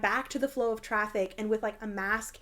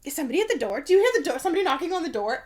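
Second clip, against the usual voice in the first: mock surprised mom; 5 semitones higher, 4 dB louder, much faster than usual. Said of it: "And then she's like".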